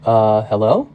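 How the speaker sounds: a touch of sleepy confusion; just woken. A narrator's reading. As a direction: answer the phone as if just startled from a nap. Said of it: "You sound like you've been asleep".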